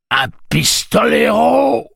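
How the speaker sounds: high, drawn-out excited shout; thrilled, quivering exclamation; trembling with excitement. A narrator's reading. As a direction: cry out in awe, loud and slow. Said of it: "d'une voix que l'excitation faisait trembler".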